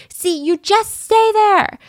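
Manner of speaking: mock arguing. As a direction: put on her shrill complaint, slowly. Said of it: "she keeps arguing with him".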